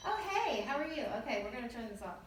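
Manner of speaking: high, chirpy fake greeting; mock casual greeting. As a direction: pitch it up, then settle back down. Acts out switching the radio off.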